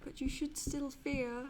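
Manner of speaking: high, ringing wizard threat; hammed-up wizard hammering home the clue. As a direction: declaim it grandly, building to a loud cry. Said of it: "I'll do my wizard voice".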